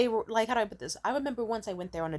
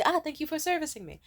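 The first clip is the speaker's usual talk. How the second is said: mock gracious thanks; 8 semitones higher than usual. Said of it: "I'm gonna say".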